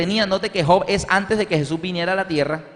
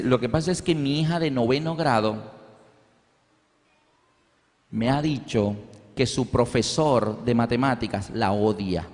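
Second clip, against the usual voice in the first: upset mother; 7 semitones lower, 4 dB quieter than usual. Retold or imitated. Mother tells the chaplain her daughter's complaint, low and heavy.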